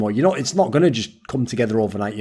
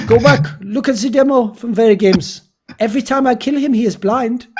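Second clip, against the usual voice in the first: higher-pitched imitation of a protesting teammate; mock indignant quote, pitched up; 9 semitones higher than usual. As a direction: retell his complaint in a raised, insistent voice.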